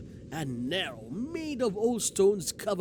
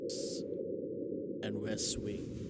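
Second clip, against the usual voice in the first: subdued storytelling voice; measured narration with falling phrase ends; story narration; 4 semitones lower, 4 dB quieter than usual. A narrator's reading. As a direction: read the story aloud, letting phrases sink. Reads story aloud.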